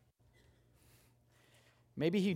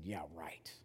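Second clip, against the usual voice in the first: low, soft sarcastic yeah right; eye-rolling scoff; 12 semitones lower, 15 dB quieter than usual. Retold or imitated. Preacher scoffing at the thief's dying plea, low and soft. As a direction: scoff it like you're rolling your eyes. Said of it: "rolled my eyes and said".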